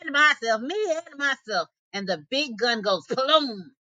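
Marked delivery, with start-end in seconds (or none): 0.0-1.7 roaring. A narrator's reading. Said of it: "roaring his head off".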